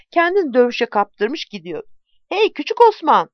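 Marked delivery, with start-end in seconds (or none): 2.3-3.3 calling out high and loud across the battle; shouted warning. Acted. Deli Bozuk yells to warn young Osman, a high loud shout. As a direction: yell a warning over the fighting noise. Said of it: "diye bağırdı".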